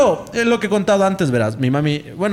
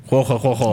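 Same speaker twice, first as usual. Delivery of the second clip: low mock ghostly chuckle; hollow imitated "jojo" laugh; risa fantasmal imitada; 4 semitones lower, slower than usual. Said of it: "Y escucha que se ríe". (risa imitada, baja y hueca)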